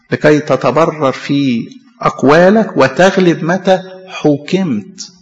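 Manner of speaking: slow, weighty recitation of scripture; slow preacher's verse reading; solemn scripture reading. Acted. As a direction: draw out each word with gravity.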